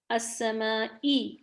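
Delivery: slow السمائی ending in ee; السمائی, clear final kasra; correct i sound. Shown as a demonstration. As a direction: model السمائی slowly with pure i. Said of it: "السماء نہیں ہے".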